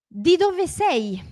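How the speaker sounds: high, slowly drawn-out "Di dove sei?"; slow model question. Shown as a demonstration. Teacher introducing where-from question, slow model. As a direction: stretch each word for learners.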